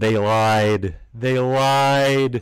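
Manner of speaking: very loud, very slow, booming dramatic narrator voice. Chatting with friends, the speaker adds a comment in a narrator voice. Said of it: "Narrator's voice".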